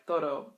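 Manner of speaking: toro with the D tapped like an R; soft D like an R. Shown as a demonstration. Learner says todo to a Spanish speaker, D slipping to R. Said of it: "comes out more like an R".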